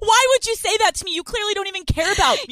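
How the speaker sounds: mock shouting at the boyfriend; mock hysterical rant. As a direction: play the wounded girlfriend, overdone. Acted girlfriend meltdown at boyfriend.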